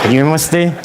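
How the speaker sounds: playful imitation of Japanese speech; put-on Japanese accent; mock Japanese accent. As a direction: say it like a Japanese native. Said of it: "udah kayak orang Jepang aja".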